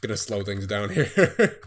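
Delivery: strained, tired voice; losing voice. Real, not acted. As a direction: talk like your voice is going. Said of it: "Oh, I'm losing my voice".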